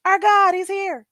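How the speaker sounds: high, loud mock panic of awed islanders; hammed-up alarmed crowd; panicked excitement. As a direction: gasp it out like your god just showed up. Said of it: "Everybody's like".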